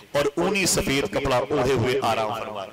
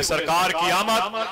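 "सरकार की आमद" called out slowly and higher; say it louder; 4 semitones higher, much slower than usual. Shown as a demonstration. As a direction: lead the crowd, call it out. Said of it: "ऊंचे बोले". ("सरकार की आमद" ऊँची आवाज़ में)

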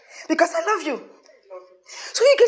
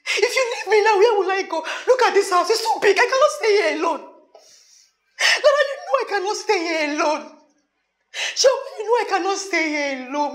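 wailing plea; 4 semitones higher than usual. Acted. Begging friends not to leave.

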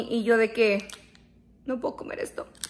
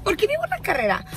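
excited; 5 semitones higher than usual. Real, not acted. Hyped talk about living in a rush.

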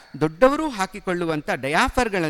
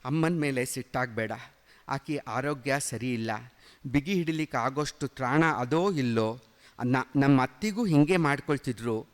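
gentle advice; 4 semitones lower, 4 dB quieter than usual. Acted. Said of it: "ಬುದ್ಧಿ ಮಾತು ಹೇಳಲಾರಂಭಿಸಿದಳು".

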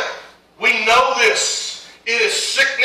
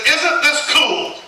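slow sarcastic question, pitched up in mock delight; sarcastic mock cheer; 5 semitones higher, slower than usual. Preacher mocking the school's email to the congregation, sarcastic. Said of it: "you people are nuts".

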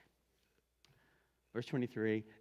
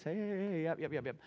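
brushing off; 2 semitones higher, 3 dB quieter than usual. Retold or imitated. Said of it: "he just pushes it off".

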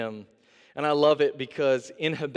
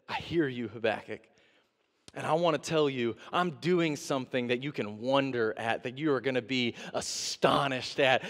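gentle reassurance; 3 semitones lower, 5 dB quieter than usual. Acted. God answering Habakkuk gently.

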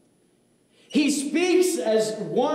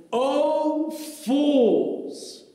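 Jesus rebuking; 5 semitones higher than usual. Acted.

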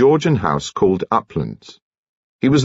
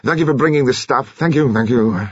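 stammering, embarrassed apology; flustered, halting politeness; exquisite awkwardness; 4 semitones higher than usual. A narrator's reading. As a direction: stumble through awkward thanks. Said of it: "added with exquisite awkwardness".

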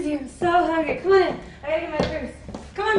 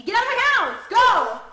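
yelled order; 3 semitones higher, 5 dB louder than usual. Acted. Customer throwing pizza boy out.

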